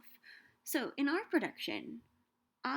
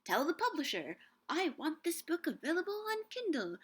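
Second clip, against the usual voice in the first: mock customer request; 5 semitones higher, 3 dB louder than usual. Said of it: "a button on Amazon where you could say".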